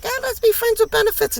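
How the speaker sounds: high, quick teasing come-on; sing-song offer, hammed up; mock flirty proposition. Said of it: "the feminine was like".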